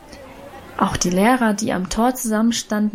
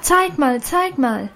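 high excited chant of zeig mal; excited clamour; 4 semitones higher, slower than usual. A narrator's reading. Schoolgirls crowding round to see the dress, excited. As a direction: pester her, pitched high. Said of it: "schrien die anderen Mädchen nun auch aufgeregt".

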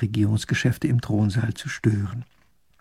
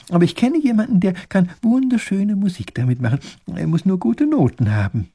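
higher, eager character voice building in enthusiasm; excitable professor, earnest; 4 semitones higher than usual. Acted. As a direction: explain with rising admiration. Professor explains playing and tuning.

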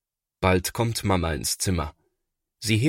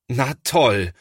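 sarcastic; 5 semitones higher, 4 dB louder than usual. A narrator's reading. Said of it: "er sieht nicht so aus".

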